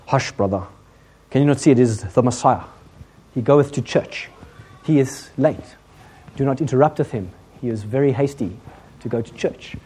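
lightly voiced sanctimonious churchman; mock-pious disciples. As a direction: hush him piously, in measured King James style. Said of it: "of course, were very spiritual".

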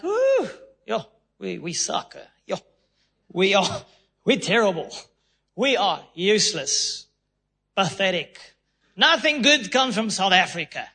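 hammed-up South African self-pity; mock self-pity. Preacher voicing gloomy South Africans, mock moan. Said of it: "South Africa, it's like".

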